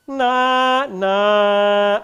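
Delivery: snarling demo; unpleasant sound. Shown as a demonstration. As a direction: make it deliberately ugly. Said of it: "I'm gonna make an unpleasant sound".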